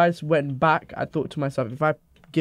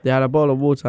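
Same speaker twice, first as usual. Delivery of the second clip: retold louder so the mic picks it up; louder on request; 4 dB louder than usual. Real, not acted. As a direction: speak up for the recording. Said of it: "Say louder".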